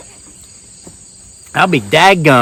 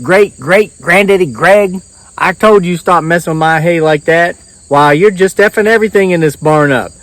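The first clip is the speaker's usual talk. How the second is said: loud, high scolding rant; angry farmer; 5 semitones higher, 4 dB louder than usual. Retold or imitated. Farmer yelling at the ghost for wrecking hay. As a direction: chew out the ghost in a fury.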